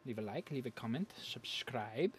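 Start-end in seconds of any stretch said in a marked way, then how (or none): 1.2-2.1 whispered plug. Acted.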